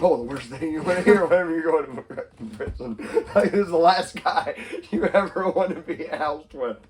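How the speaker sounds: high, loud laughter through the words; laughing. Real, not acted. Laughing hard while telling a friend about the prison show. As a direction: laugh while you tell it.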